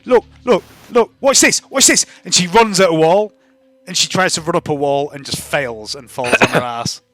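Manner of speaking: put-on high, loud, rapid babbling kid voice; excitable girl Spring. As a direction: gush breathlessly like an over-eager street kid. GM keeps Spring's voice.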